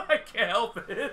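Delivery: talking through a laugh; can't stop laughing as you speak; helpless laughing. Real, not acted. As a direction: laugh spilling into the words. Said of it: "he's laughing a little too hard".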